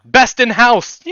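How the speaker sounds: big loud game-show reveal; booming prize announcer. Pretend.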